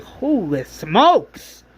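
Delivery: drawn-out, slow exclamation; surprised. Retold or imitated. Shane after killing the walker, slow amazed exclamation. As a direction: stretch it out in amazement. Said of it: "Shane's like".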